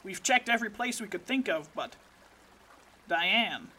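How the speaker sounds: lightly voiced tough field agent; gruff agent voice. Agent character voice, low.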